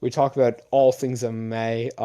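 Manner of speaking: slightly slurred words after drinking; slurred speech. Real, not acted. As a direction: slur a little, tipsy. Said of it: "if I'm slurring my words".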